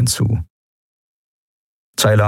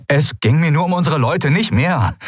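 higher, mildly desperate plea; 10 semitones higher than usual. Acted. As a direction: sound cornered. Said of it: "wie verzweifelt er klang". (verzweifelt klingend)

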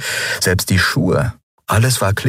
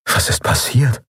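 inner thought; 6 semitones higher than usual. Acted. Dazed inner thought after waking.

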